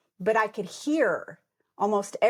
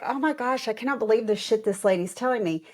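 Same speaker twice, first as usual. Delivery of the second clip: higher, fast incredulous aside; disbelief; 3 semitones higher, faster than usual. Retold or imitated. Patient reacting to the nurse's scolding, incredulous. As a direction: sound stunned by what you hear. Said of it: "I'm just like".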